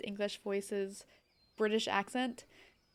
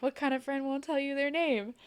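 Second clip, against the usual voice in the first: put-on the running line in a lightly done British accent, pitched up; British accent catchphrase; 4 semitones higher than usual. Retelling the running group joke in a British accent. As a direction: replay the old joke in a breezy British accent. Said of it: "doing the Ben Diskins British accent".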